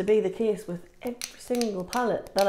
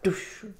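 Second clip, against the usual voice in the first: quick whooshing "doosh"; imitated swipe noise. Shown as a demonstration. Makeup reviewer showing one swipe of matte, imitated swoosh. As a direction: make a swipe sound effect.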